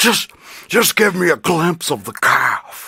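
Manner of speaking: creepy horror-movie killer voice. Retelling the guy on the top bunk asking to see the calf: Silence of the Lambs–Saw villain voice. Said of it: "Whose voice is that?".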